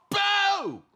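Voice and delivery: high, loud cheeky boo; cheeky cub yelling boo; playful boo. Acted. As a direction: jump out with a big high boo. Cub scares walrus.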